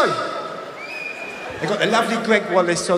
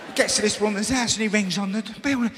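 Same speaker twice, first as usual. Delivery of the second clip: ordinary talk, nothing marked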